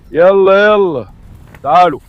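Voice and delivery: loud come-on call; short, loud herding calls. Real, not acted. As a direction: hurry them all in. Calling the chicks together.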